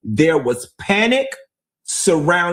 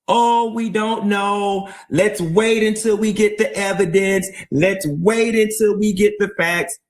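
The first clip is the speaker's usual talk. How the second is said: higher-pitched mimicry of cautious doubters; mock reluctance; 6 semitones higher than usual. Host mimicking those waiting for evidence, mock reluctant. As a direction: imitate people hedging, pitched up. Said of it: "this reluctance".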